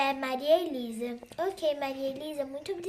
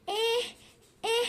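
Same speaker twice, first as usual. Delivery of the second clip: put-on crying baby; 9 semitones higher than usual. Baby crying voiced by speaker.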